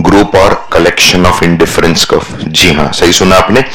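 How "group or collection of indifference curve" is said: slow recital. Shown as a demonstration. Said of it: "Come on loudly".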